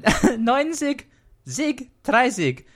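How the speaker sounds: German. Acted. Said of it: "I am German, remember?".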